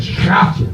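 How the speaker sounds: "schatje" with a harsh throat-scraped sch; guttural Dutch endearment. Shown as a demonstration. Comic contrasting Dutch sweet talk with English, guttural "schatje". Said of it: "we use sweet sugar honey".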